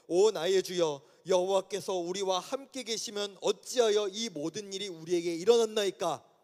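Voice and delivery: measured, composed scripture-style plea; dignified polite prayer. Retold or imitated. Gideon politely questioning God in proper prayer language, composed. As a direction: ask with courteous restraint. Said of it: "뭔가 되게 점잖게 얘기하고".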